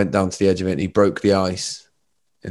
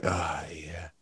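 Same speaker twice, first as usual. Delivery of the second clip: blissed-out whisper; 3 semitones lower than usual. Acted. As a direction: breathe it out as if utterly soothed. Acting out a blissed-out meditation listener.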